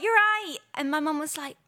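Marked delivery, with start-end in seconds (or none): 0.0-0.6 put-on higher, louder Manchester kid voice; Mancunian accent. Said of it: "in a Mancunian accent".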